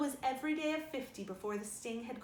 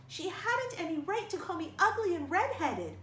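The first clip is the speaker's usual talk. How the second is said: higher, louder defiant retort; 7 semitones higher, 6 dB louder than usual. Acted. Girl defending herself to Marilla, defiant and louder. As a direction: fling it back in defiance. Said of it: "retorted Anne, evasive and defiant".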